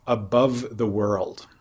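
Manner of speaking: slow, deliberate quoting of "above the world". Shown as a demonstration. Quoting the suttas' phrase to the listener, slowly. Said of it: "one of the little, uh, idiomatic phrases".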